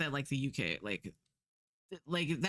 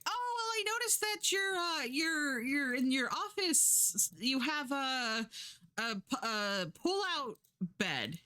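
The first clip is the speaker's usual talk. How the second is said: lightly voiced higher, wheedling Josie; mock-sweet hint about the spare bed; wheedling guest; 7 semitones higher than usual. Josie pushes for pull-out bed.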